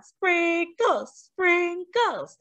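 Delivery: put-on high, eager little kids; excited cry. A narrator's reading. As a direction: cry it out in delight. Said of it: "they cried".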